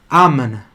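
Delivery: Amen with clear open vowels and a plain n, not the nasal Portuguese amém; Italian amen. Shown as a demonstration. Teacher showing the class how Italian Amen sounds, clear vowels. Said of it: "Tá vendo como é que eu falo amém".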